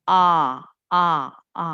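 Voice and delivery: আ as a held open vowel; R without r. Shown as a demonstration. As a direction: separate each আ, leaving off any r. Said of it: "আর এর উচ্চারণ আর বলবে না".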